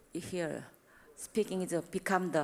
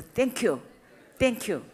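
raised, warm thanks; louder happy thank you; grateful thank you; 3 semitones higher, 4 dB louder than usual. Shown as a demonstration. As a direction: accept it gladly. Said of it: "You think, think".

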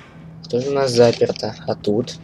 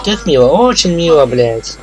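menacing villain voice; 4 semitones higher, 5 dB louder, slower than usual. Acted. Voicing the threatening villain.

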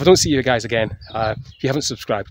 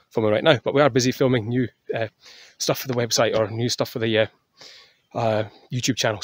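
out of breath. Real, not acted. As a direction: still a bit winded. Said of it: "Sorry, I'm still out of breath".

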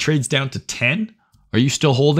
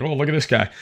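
higher-pitched imitation of onlookers; put-on gawking at someone, pitched up; mock amazement; 5 semitones higher, faster than usual. Streamer imitates everyone reacting to the one-mil guy, mock amazement.

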